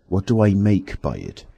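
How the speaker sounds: a wronged, pleading complaint; aggrieved whine. Acted. Tramp whining to the unseen man, aggrieved and wronged. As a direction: bleat about the injustice of it. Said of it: "in a tone of unendurable wrong".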